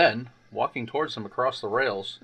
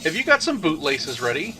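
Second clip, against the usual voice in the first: rude teasing; 5 semitones higher, 4 dB louder than usual. Acted. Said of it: "ran off laughing rudely".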